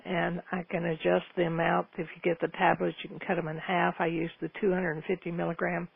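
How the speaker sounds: raspy morning voice; hoarse, scratchy throat; breathy rasp. Real, not acted. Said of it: "my voice is raspy this morning".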